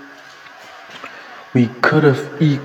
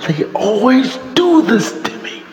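higher-pitched exasperated complaint; real frustration; 6 semitones higher than usual. Real, not acted. Fan complaining that the team always dashes hope, frustrated. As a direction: let the grievance burst out high, then break off. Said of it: "I'm fucking frustrated".

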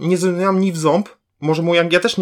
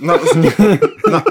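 louder, laughing through the words; 3 semitones higher, 6 dB louder than usual. Real, not acted. Breaking up at own joke.

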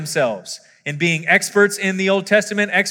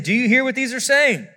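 higher-pitched, mildly indignant challenge; 8 semitones higher, 4 dB louder than usual. A narrator's reading. Priests challenging Jesus over the children's praise, mildly indignant. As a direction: read it as a slightly affronted question. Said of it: "they were indignant".

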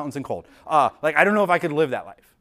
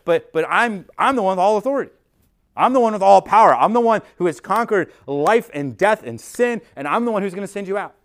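rising louder and higher to a ringing peak; building proclamation; 4 semitones higher, 6 dB louder than usual. Acted. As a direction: preach it with growing fire. Preacher voicing Jesus' claim.

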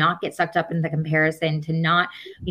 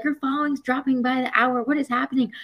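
a lightly voiced panicked manager, higher; alarmed manager; 7 semitones higher than usual. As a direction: play the agent pressing her urgently.

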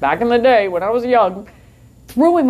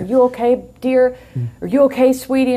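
higher-pitched, lightly imitated fussing stranger; concerned bystander; 4 semitones higher than usual. Strangers check on the woman who was attacked, lightly imitated concern.

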